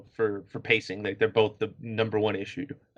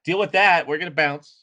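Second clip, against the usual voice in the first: imitated cheeky kiss-off, pitched up; sarcastic brush-off; 4 semitones higher than usual. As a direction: toss it off as a mocking goodbye. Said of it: "the sarcasm is, like, cranked to eleven".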